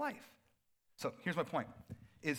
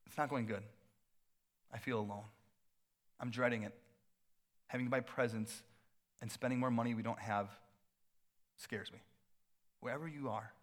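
understated, subdued and lower; downcast; 3 semitones lower, 3 dB quieter than usual. Acted. Voicing lonely churchgoers dreading Christmas, subdued and downcast. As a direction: confess it quietly, with pauses. Voices people struggling at Christmas.

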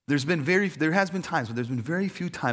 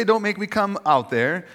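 high, loud mock threat; hammed-up commanding call; mock bossy warning; 7 semitones higher, 5 dB louder than usual. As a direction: play at laying down the law. Mocks the bossy Jesus he rejects.

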